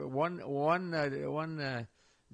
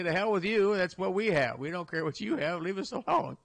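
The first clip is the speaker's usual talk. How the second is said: dad's defiance; 3 semitones higher, 4 dB louder than usual. Retold or imitated. Dad defying the neighbors.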